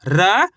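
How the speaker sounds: र said alone, slowly and clearly; drawn-out syllable. Shown as a demonstration. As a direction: hold the letter र long and clear. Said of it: "आपको ही मेरे साथ साथ पढ़ना है". (अक्षर र को अलग से खींचकर बोलना)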